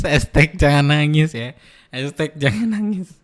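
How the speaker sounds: slow, stretched-out mock consoling; drawn-out teasing slogan. Streamer teases with don't-cry hashtag, slow drawn-out slogan. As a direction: draw out each word like a slogan.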